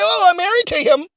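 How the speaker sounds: high-pitched mock innocent bride; imagined visa bride. Bride explains herself to border officials, high mock-innocent voice. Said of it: "You can just come in and say".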